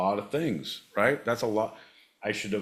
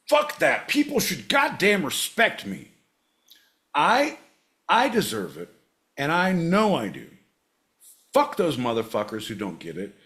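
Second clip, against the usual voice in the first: much higher and louder, spitting out every curse; furious rant; 6 semitones higher, 4 dB louder than usual. Retold or imitated. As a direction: rage at everyone who won't respect him. Imagined enraged self rant.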